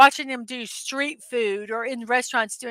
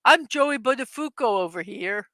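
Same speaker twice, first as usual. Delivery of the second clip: lightly attempted New Jersey accent; a hint of New Jersey. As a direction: try a mild Jersey accent. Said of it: "in my New Jersey accent".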